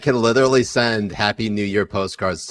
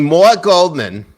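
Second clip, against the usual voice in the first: higher, louder, slow nasal cartoon Jewish voice; Mort Goldman voice; 8 semitones higher, 7 dB louder, slower than usual. Host says his name in the Mort Goldman voice. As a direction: say the name as the cartoon character himself. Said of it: "That's who I'm channeling".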